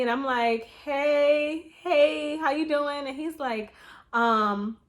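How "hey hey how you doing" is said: higher, louder bright hello on the phone; eager greeting. Retold or imitated. Tenant answering the landlord's call, eager and loud. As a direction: pick up the call all keyed up.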